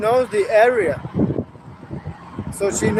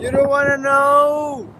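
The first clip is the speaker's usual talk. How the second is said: slow menace; 5 semitones higher, 4 dB louder than usual. Real, not acted. Heated argument on live.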